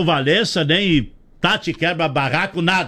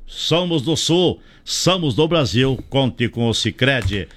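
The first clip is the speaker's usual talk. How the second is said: ad read; 2 semitones lower, slower than usual. Real, not acted. Reads a sponsor's slogan.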